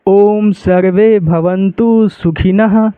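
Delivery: slow, measured mantra reading; slow recitation. Shown as a demonstration. Teacher reading the mantra aloud for the class. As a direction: recite each word slowly and evenly. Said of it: "तो इसको क्या पढ़ेंगे?".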